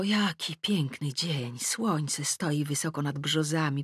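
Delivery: soft, slow, savouring murmur; dreamy wonder. A narrator's reading. Admiring a fine morning from the window, dreamy. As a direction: drift off softly into admiration.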